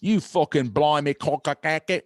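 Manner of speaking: slow mock British gibberish; lightly mangle a British gangster's cursing; slurred-together imitation of British slang. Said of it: "I can't understand their pig Latin".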